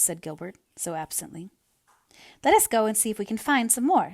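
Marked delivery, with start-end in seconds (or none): 2.4-4.1 raised and louder, eager. A narrator's reading. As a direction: jump at the chance to escape. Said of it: "suggested Anne eagerly".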